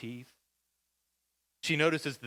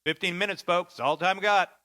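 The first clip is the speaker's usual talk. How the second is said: bus driver; 4 semitones higher, 7 dB louder than usual. Retold or imitated. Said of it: "and the driver says".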